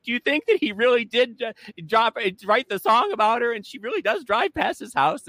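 high, excited gossiping bro voice; a hint of macho guys hooked on gossip; mock macho guy. Macho guys gossiping about the song, a hint of mock bro.

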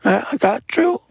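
high, eager obedient reply; mock-earnest yes sir. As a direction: answer up high like a keen junior. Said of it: "I'm like".

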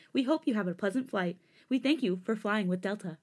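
soft-spoken flight attendant announcement; airline hostess. Pretend. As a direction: welcome passengers like cabin crew. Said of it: "to soft-spoken airline hostess".

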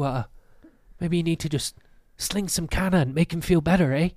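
lightly voiced cocky stranger; attitude. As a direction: needle them with fake sympathy. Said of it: "he's got some attitude to it".

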